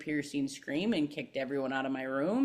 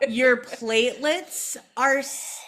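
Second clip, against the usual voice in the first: doctor delivering bad news; 7 semitones higher, 4 dB louder than usual. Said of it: "And he's like".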